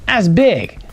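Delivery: high, rising amazement each time; awed. Real, not acted. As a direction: keep marvelling at the size. Repeated awe at huge truck.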